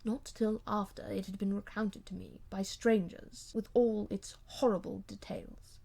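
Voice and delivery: a hint of a wounded husband holding back; husband coldly answers his wife's protest; lightly voiced cold husband.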